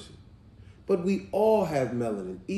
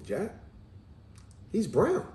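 soft, calm retold kid answer; softly questioning, matter-of-fact boy; real calm child; 6 semitones higher, 6 dB quieter, slower than usual. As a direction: imitate a boy answering calmly. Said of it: "Real calm".

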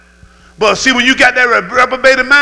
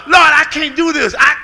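crying out to the Lord; 5 semitones higher than usual. Acted. Acted cry to the Lord.

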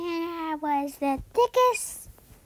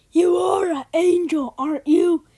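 put-on loud bossy girl; 3 semitones lower, 6 dB louder than usual. Girl begs for money.

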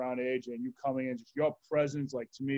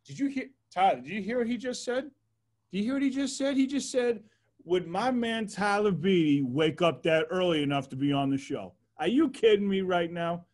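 much higher, eager and amazed; can't believe what he just heard; excited disbelief; 5 semitones higher than usual. Real, not acted. Telling the guest his co-host's remark, higher and amazed.

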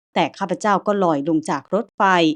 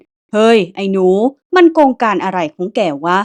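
barking shout; 6 dB louder than usual. Acted. Big axe-wielding man shouts at the boy, loud bark. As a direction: snap at the boy like a temple guard. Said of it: "เสียงตวาดดังขึ้น".

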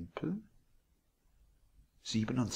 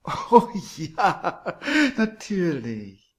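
put-on high, much louder gushing old landlady; sweet landlady; 9 semitones higher, 12 dB louder, much slower than usual. A narrator's reading. Landlady surprising Billy from behind, high and gushing. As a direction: coo it like a doting hostess.

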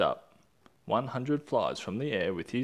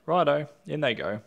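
eager agreement; 5 semitones higher, 5 dB louder than usual. Acted.

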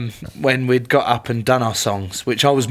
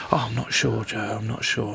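soft, hesitant imitation; unsure; 2 semitones lower, 8 dB quieter than usual. Nervous player doubting he should sing, quietly unsure. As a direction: go quieter, voicing a teammate's doubt. Teller acts unsure teammate.

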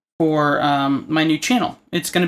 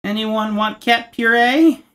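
mock host offer; 5 semitones higher, 4 dB louder, slower than usual.

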